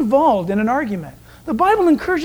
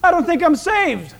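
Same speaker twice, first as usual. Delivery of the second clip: put-on worried teen; 6 semitones higher than usual. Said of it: "and say to me".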